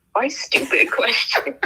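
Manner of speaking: rising, questioning alien voice; lightly voiced alien. A narrator's reading. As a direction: ask it like a puzzled alien. Rocky asks why stupid.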